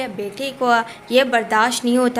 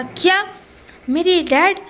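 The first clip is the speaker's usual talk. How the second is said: higher-pitched, startled question; shocked disbelief; 6 semitones higher than usual. Acted. Son learning of his dad's death, shocked. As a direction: react in stunned disbelief, voice jumping up.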